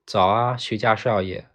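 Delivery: bright loud call across the street; loud greeting. Retold or imitated. Tofu seller greeting the young master on the street, loud call. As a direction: hail him cheerfully from a distance. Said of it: "响亮地喊了一声".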